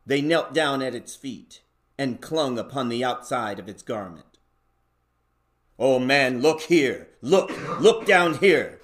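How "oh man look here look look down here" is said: rising urgent call to look; exclaiming. Acted. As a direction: build from a call to an excited cry. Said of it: "exclaimed the ghost".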